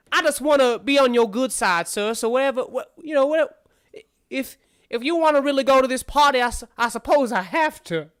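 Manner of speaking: high, hesitant, flustered character voice; Armand, reluctant. Acted. Armand reluctantly agrees to help.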